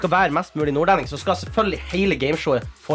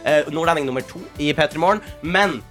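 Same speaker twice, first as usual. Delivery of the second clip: upbeat host intro; game show host; 2 semitones higher than usual. Acted. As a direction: welcome them like a quiz host. Hosts the gameshow. (programleder i spørreprogram)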